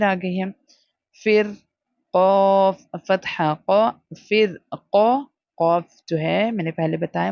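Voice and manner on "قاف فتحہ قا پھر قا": قا with a full, heavy qaf. Shown as a demonstration. Teacher showing a heavy letter, full qaf. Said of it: "ہمیشہ موٹا کر کے پڑھتے ہیں".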